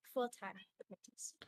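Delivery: hushed whisper. Acted. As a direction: drop to a whisper. Confidential aside.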